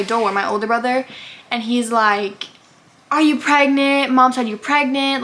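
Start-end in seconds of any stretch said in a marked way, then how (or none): 3.1-5.2 slightly raised, pressing accusation; higher-pitched retold confrontation; mock yell. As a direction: imitate a brother yelling, at half strength. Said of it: "yelling at me".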